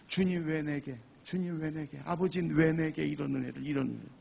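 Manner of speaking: hushed, softened thankful prayer; murmured awe at undeserved grace, lightly acted; tearful gratitude, retold. Man thanking the Lord in tears, mildly acted tearful gratitude. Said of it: "감사의 눈물이 막 쏟아지면서".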